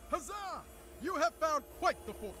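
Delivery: high-pitched fantasy game master proclaiming; mock-medieval herald. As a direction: hail the treasure like a herald. Game master hails treasure find.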